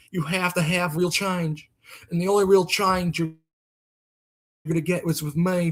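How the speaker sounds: a hint of a Southern politician's campaign speech; mock stump speech, lightly drawled; Bill Clinton impression. Mocking a president on the campaign trail, Bill Clinton voice. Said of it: "That's my Bill Clinton impression".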